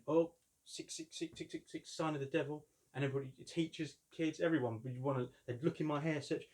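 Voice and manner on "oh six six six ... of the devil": mock taunt. Kids taunting him at school.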